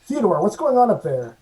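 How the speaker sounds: lightly acted captain demanding a report; captain on intercom. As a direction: call up to the crew as captain. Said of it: "hits the intercom next to the door".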